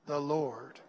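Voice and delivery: slow, gentle reading of the Lord; nice and slow. Shown as a demonstration. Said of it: "Nice and slow".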